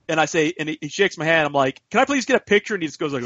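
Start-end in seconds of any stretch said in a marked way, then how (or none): 1.9-2.7 higher-pitched eager plea; mock fanboy politeness, high; starstruck fan request. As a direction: ask your hero, voice pitched up. Acts out asking star for photo.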